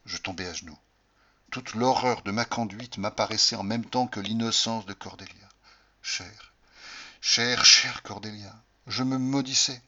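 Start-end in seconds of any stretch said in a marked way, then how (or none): 6.0-8.5 slow, louder pleading endearment; tender plea. Acted. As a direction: beg her forgiveness tenderly. Amant repentant implore. (supplication tendre et lente)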